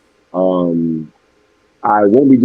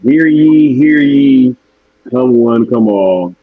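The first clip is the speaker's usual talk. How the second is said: town crier call; 4 semitones higher, 3 dB louder, slower than usual. Pretend. Mock town crier summoning congregation.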